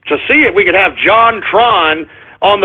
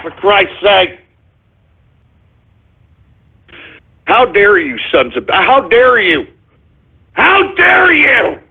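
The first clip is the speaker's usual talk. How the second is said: shaking with anger. Real, not acted. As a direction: fume and sputter at the prankster. Host fuming at prank callers.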